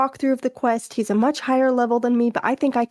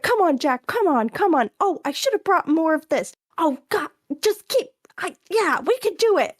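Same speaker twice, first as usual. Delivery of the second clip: higher, excited mock pleading; imitated gamer panic; 5 semitones higher than usual. Wife imitating husband in the vampire fight, higher and frantic. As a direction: egg yourself on in a mock panic. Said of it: "he's like".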